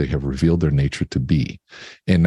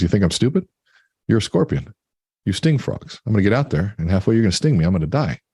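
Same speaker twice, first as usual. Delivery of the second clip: higher-pitched indignant frog, storytelling style; acted incredulity; 4 semitones higher than usual. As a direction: push back in disbelief, voice lifted. Frog doubts scorpion's request.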